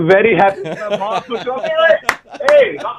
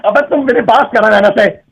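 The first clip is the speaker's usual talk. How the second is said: heated, insistent argument; angry protest. Real, not acted. Husband disputing whose responsibility it is, angry. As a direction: push back angrily at the caller. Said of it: "आप चिल्ला क्यों रहे हैं".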